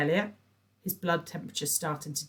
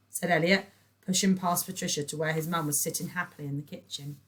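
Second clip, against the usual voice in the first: usual speaking voice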